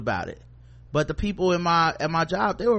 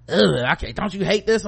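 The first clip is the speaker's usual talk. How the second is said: exasperated groan; 3 semitones higher, 3 dB louder than usual. Retold or imitated. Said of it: "make a face like".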